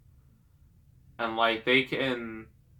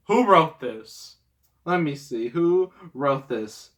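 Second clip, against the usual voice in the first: mock outrage; 3 semitones higher, 4 dB louder, slower than usual. Real, not acted. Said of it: "rhetorical outrage".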